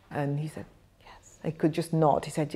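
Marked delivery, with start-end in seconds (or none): 1.0-1.4 barely audible, imitated whisper; breathless whisper. Dying miner agreeing to be helped, breathless whisper. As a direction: breathe it out as a very weak patient. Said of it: "So he whispered".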